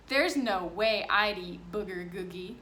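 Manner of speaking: bully mocking new boy's lunch; mocking kid. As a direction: make fun of the food. Kid mocks the food.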